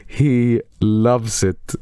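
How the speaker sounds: slow, savoring repeat. Shown as a demonstration. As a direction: stretch it out for effect.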